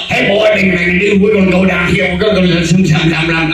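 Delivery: Southern drawl. Retold or imitated. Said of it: "took me two months to understand".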